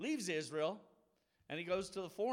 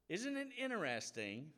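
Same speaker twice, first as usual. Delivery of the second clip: pointed question; 5 semitones higher than usual. Retold or imitated. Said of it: "And yet Jesus says".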